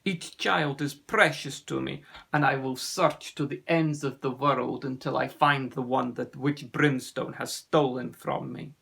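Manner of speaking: put-on measured, accented vow; a firm parent's promise, lightly voiced accent; resolute sea serpent. Ossian vows to search.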